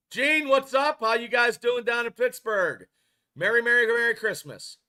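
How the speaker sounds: loud, high, cheery shout-out to a viewer; excited greeting. Real, not acted. Greeting chat viewers on stream.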